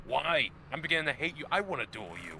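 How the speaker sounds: hammed-up exasperated duelist; mock frustrated. Imitating the film's worn-down duelist, mock frustrated. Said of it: "the other guy gets more frustrated".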